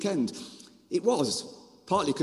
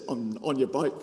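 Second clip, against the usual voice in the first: put-on low, lightly Irish-accented refusal; 6 semitones lower than usual. Young man refusing seven years' work, mock Irish accent. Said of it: "in an Irish accent".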